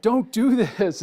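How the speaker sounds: high, loud mock warning; glaring warning. Sign warning the driver about food, loud and insistent. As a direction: sound the alarm like a blaring sign. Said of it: "this sign is glaring".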